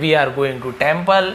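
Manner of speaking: each word stretched out slowly; slow, clear teacher demo; slow model reading. Shown as a demonstration. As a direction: drag it out for the class to copy. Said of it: "teacher models sentence slowly".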